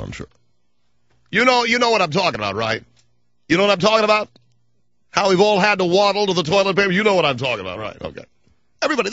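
high, cartoonish mock voice; Comb Over Boy voice. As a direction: lampoon a rival host with a silly high voice. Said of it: "he talks like this".

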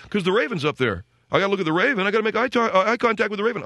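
put-on a teen defending his reading; imitating his son. Son explains to dad why he looks up, mock teen voice. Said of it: "he's pointing up to the right side".

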